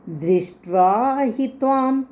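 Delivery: दृष्ट्वा हि त्वां run together in one breath; said as one unit. Shown as a demonstration. Teacher showing the rhythm of दृष्ट्वा हि त्वां in one breath. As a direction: bind दृष्ट्वा हि त्वां into a single rhythmic phrase. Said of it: "ये तीन अक्षर इकट्ठे बोलने हैं".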